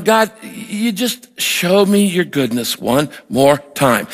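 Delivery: slow, tearful prayer; retelling a tearful thank-you to God; crying. Retold or imitated. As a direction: let the words come out slow and choked, moved to tears. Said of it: "and I'm, I'm crying".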